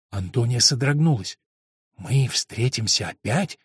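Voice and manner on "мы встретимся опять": faltering repeat. Acted. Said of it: "с трудом повторила она".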